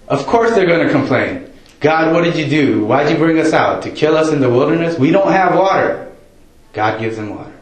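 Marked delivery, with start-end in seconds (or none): 1.8-6.1 whiny complaining Israelites. Retold or imitated.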